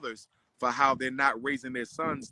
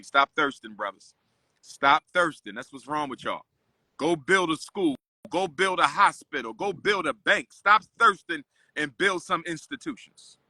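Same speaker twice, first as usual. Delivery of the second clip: louder, punchy commands to the men; preachy scolding; 3 dB louder than usual. Real, not acted. Lecturing the brothers to stop thirsting, louder preachy scolding.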